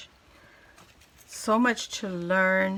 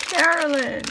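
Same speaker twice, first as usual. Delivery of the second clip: excited call; 5 semitones higher, 7 dB louder than usual. Real, not acted. Calling out friend's name in delight.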